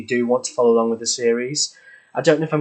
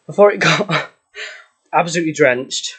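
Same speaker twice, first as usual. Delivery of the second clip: laughing; 5 semitones higher, 5 dB louder than usual. Real, not acted. Laughing while out of breath.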